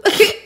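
high, loud little falling noise; comic boop. Retold or imitated. Retelling her tumble by the elevator, comic boop. Imitates herself toppling over.

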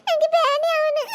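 put-on crying little child; tearful kid says it's frightened; scared whimper.

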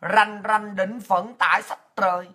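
put-on slow, solemn recitation of the old poem; reciting the patriotic verse Obama quoted, slow and formal. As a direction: declaim it like a call to arms, unhurried. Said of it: "Bởi ông mới dùng cái câu là".

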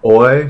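put-on Oi as in boy; Oi, a boy sound; Greek diphthong. Shown as a demonstration. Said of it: "we might say this is like boy".

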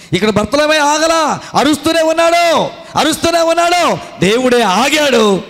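high, urgent sermon climax; fiery preaching. Acted. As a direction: preach it out, pleading and rising. Preacher at full force.

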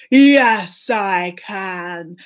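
slow, drawn-out ogre boast; lightly voiced boasting ogre; boastful ogre. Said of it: "And the ogre said".

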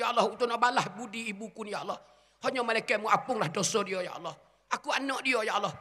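a lightly voiced son begging forgiveness for his mother; grieving son's prayer. Preacher voices son praying for his dead mother, mild grief. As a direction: plead as the son tucking his mother in one last time.

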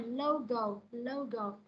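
"logo" stressed and falling on go; falling second syllable. Shown as a demonstration. Teacher shows stress in logo, falling. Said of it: "Nó sẽ xuống giọng răng thứ hai".

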